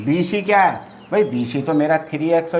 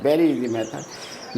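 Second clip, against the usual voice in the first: "very easy method" stretched out very slowly, each word drawn long and a bit softer; slow emphatic repeat; 2 semitones lower, 5 dB quieter, much slower than usual. Shown as a demonstration. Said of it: "ईजी मेथड".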